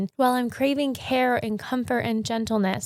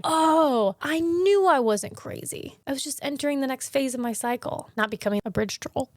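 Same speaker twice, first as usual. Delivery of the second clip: relieved exclamation; 4 semitones higher than usual. Retold or imitated. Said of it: "you're like".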